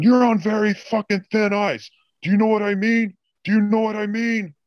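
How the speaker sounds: high, strained mock boss voice; high-pitched caricature of a raging director; imitating angry boss. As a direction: squeal the threat like a boss losing it. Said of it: "Like this".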